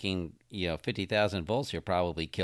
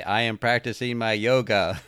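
laughing; 5 dB louder than usual. Retold or imitated. Joke robot line with laughter.

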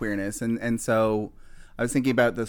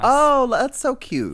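mock cute; 14 semitones higher, 5 dB louder, slower than usual. Mock reply to crude joke.

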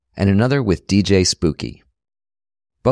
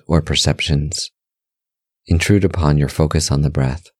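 guided meditation; 4 semitones lower than usual. Real, not acted. Host leading listeners through breath meditation, calm guided-meditation voice. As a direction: guide them gently in short, measured phrases, pitch settled and level.

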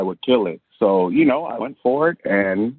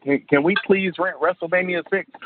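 put-on higher-pitched begging child; pleading kid; 7 semitones higher than usual. Kid begging mom to rent a tape, pleading. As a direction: plead like an excited little kid.

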